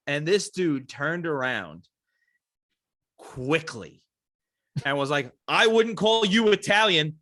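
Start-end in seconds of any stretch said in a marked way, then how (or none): 5.5-7.2 slow, higher, firm comeback; mildly fiery, every word drawn out; retold indignation. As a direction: imitate an offended teacher's measured rebuke. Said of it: "with fire in his eyes".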